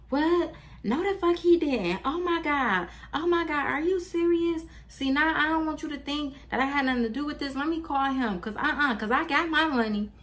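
high-pitched shocked friend, squealing disbelief. Retold or imitated. Best friend's shocked reaction voiced.

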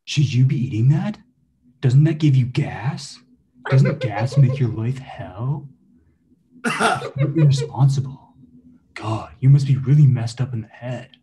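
nagging Russian cartoon-rabbit accent; Russian Bugs Bunny accent. Evil twin nags Mason about his snack, in a Russian Bugs Bunny accent. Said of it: "Russian Bugs Bunny accent".

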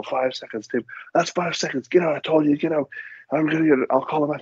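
hoger, strenge scheidsrechter die waarschuwt; strict referee. Retold or imitated. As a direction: tel streng af als een scheidsrechter. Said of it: "They go".

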